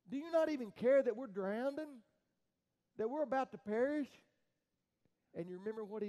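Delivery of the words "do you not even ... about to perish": louder, higher panicked plea; desperate cry. Retold or imitated. Frightened disciples crying out loudly to sleeping Jesus. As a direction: cry out over the storm. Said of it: "We cried out and said".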